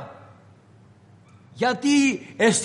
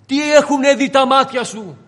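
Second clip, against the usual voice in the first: "Τι έχουνε δει τα μάτια σου" thrown out loud and higher; loud preaching climax; 5 semitones higher, 6 dB louder than usual. Acted. Jesus demanding of Peter what he has seen, loud. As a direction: hurl the question at Peter.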